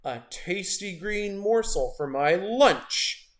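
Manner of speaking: slow, hungry shark voice; menacing shark. Acted. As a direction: savor each word like a meal. Shark threatening Avo.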